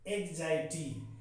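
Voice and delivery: "एग्जाइटी" said as eg-zai-tee; teacher demonstrates "एग्जाइटी", eg-zai-tee; pronunciation demo. Shown as a demonstration. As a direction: model "एग्जाइटी" with a "zai" middle. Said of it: "ये इसका pronunciation है".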